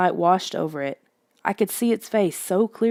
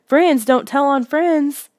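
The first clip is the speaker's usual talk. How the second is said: higher, louder, slow screamed warning; 8 semitones higher, 5 dB louder, slower than usual. A narrator's reading. Lissa screaming a warning at the boy, slow and loud. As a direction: shout it after him, drawn out. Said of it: "Lissa screamed again".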